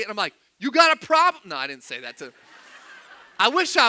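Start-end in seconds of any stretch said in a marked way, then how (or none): 0.6-1.4 loud, high mock challenge; imagined confrontation, pitched up and punchy; frustrated confrontation. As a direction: act out picking a fight. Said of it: "I started getting frustrated".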